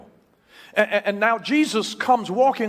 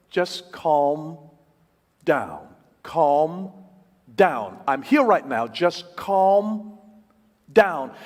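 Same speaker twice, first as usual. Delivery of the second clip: soothing; 4 semitones lower, much slower than usual. Retold or imitated. Husband soothing upset wife.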